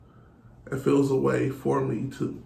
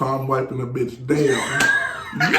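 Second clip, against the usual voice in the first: emphatic shout; slower than usual. Real, not acted. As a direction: shout it out slowly, word by word. Angry boast about ex.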